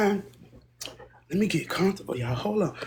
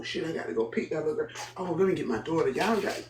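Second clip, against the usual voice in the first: usual speaking voice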